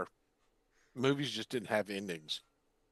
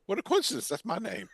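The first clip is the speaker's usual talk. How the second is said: deadpan movie villain; 9 semitones higher than usual. Retold or imitated. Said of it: "He goes".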